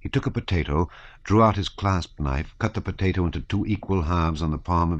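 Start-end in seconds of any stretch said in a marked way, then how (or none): none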